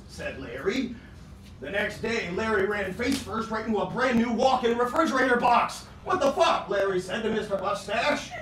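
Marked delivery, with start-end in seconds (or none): 6.1-6.7 shocked. Acted. Larry shocked quote.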